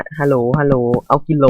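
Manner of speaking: quoting a friend's loud joke line; friend's call. Retold or imitated. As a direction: shout it like a joking friend. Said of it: "เพื่อนผมว่า".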